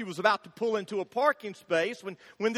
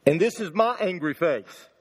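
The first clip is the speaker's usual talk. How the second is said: angry face; 4 semitones lower, 4 dB louder than usual. Shown as a demonstration. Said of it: "Now that's his angry face".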